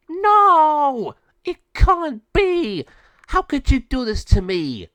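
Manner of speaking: high, loud anguished witch cry; defeated villain's wail. Acted. Defeated raven witch wails at Lama Sabio, loud anguished cry. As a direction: howl in disbelief at losing.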